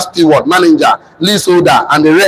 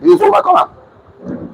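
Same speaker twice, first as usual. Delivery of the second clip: preaching high; 12 semitones higher, much slower than usual. Acted. Preacher at full force.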